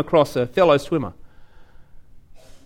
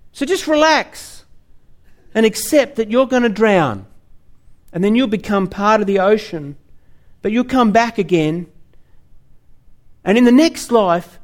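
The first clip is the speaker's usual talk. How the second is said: lightly voiced mellow spiritual dude; laid-back new-age guy; 3 semitones higher than usual. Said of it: "they say".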